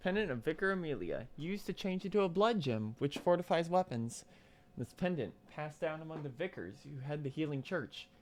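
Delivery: soft, even read-aloud voice; reading item text. Real, not acted. Reads item description.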